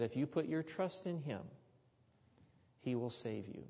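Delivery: lightly voiced grandmother comforting a child; tender grandmother. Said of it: "There was something in the tone of her voice".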